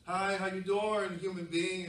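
a lightly voiced friendly dog, slow; talking dog. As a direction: greet the human like a polite dog. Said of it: "the dog would talk like this".

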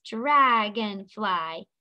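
"Dragonfly" slowly, in three beats: drag-on-fly; split into syllables. Shown as a demonstration. Teacher tapping shoulders with the class, "Dragonfly" syllable by syllable. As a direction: draw out each syllable of "Dragonfly", one per tap. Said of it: "Three syllables".

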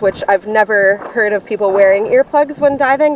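speaking behind plastic visor; through a face mask. Real, not acted. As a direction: voice muffled inside mask. Seen 0: Full snorkel mask covers her face while speaking; absent before and after.

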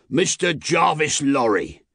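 high, slow call of a name. A narrator's reading. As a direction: announce it slowly across the distance. Rider calls a name through mist.

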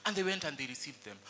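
ordinary talk

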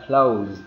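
"closed" as one syllable ending -zd; final D sound. Shown as a demonstration. Teacher confirming the rule to learners, final D sound. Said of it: "Ending sound nó là âm D".

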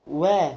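"وا" as an open, drawn-out "wa"; waw with fatha. Shown as a demonstration. Teacher showing how waw with fatha is pronounced, "وا" as open "wa". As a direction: say "وا" slowly with a long open a. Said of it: "الواو اللي عليها فتحة تتنطق".

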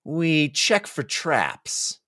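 lightly voiced gamer; slow player voice. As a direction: drag out the words through a mouthful of chips. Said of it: "he said".

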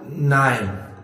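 abashed little admission; sheepish. A narrator's reading. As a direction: admit it sheepishly. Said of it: "antwortete sie betreten".

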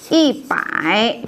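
"Y bải" said slowly, syllable by syllable; slow model reading. Shown as a demonstration. Teacher giving the class the answer, slow and careful. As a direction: spell out "Y bải" slowly for learners. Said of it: "một trăm sẽ thành gì các bạn".

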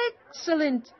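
high-pitched shouted exclamation; delighted shout. A narrator's reading. Travelers welcoming the child's carrot, shouting. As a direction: cry it out high, as a storyteller would. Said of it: "shouted the travelers".

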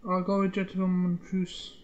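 light Scottish accent. Real, not acted. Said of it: "Why did I have a Scottish accent then?".

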